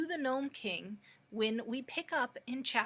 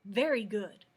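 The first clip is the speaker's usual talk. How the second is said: satisfied; 7 dB louder than usual. Acted. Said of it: "exclaimed in a tone of satisfaction".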